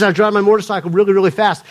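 imitated Atlanta man telling his testimony; attempted Atlanta accent. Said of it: "he's telling the story in his accent".

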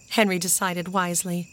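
ordinary delivery

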